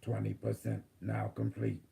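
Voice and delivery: calm robotic system readout. Acted. Channels AI healing protocol.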